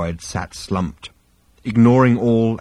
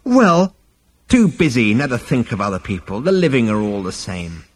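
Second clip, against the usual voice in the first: put-on scolding old man. Ancestor scolding.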